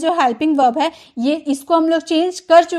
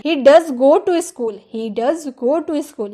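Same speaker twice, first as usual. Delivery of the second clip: slow, does stressed; slow emphatic English; much slower than usual. Shown as a demonstration. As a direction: insist with does. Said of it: "वह school जाता तो है".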